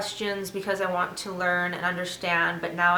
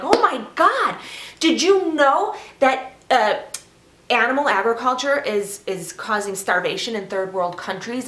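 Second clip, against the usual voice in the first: higher, louder gushing of facts; naive eager vegan; 5 semitones higher, 3 dB louder than usual. Retold or imitated. Retelling her naive self lecturing family, mock gushing. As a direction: imitate her younger self bursting to share. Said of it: "I am gonna share it".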